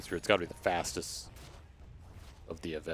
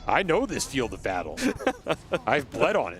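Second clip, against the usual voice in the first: defiant arena champion; booming defiant gladiator; 4 semitones higher than usual. Acted. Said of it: "why do you sound like Gladiator".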